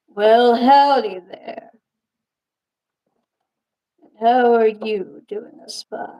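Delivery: slow Southern cowboy drawl. Acted. Puppeteer voicing her cowboy puppet Scorpio, slow Southern drawl. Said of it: "He speaks like a cowboy".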